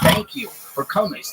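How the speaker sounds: high, slow, dazed thank you; mock dreamy birthday thanks; high-as-a-kite greeting. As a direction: thank them like a blissed-out host. Retelling himself high at concert.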